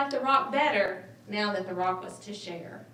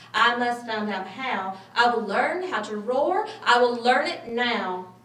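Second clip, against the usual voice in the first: determined; 5 dB louder than usual. Acted. Mouse resolves to learn roaring.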